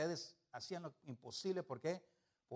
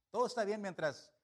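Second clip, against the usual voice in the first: énfasis de predicador; 6 semitones higher, 9 dB louder than usual. Real, not acted. Predicación enfática.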